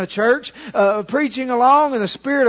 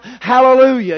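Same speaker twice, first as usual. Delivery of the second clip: a lifted call of praise, louder; cried out hallelujah; 5 dB louder than usual. Retold or imitated. Preacher imitating a worshipper crying out in church, louder call. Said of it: "somebody cry out".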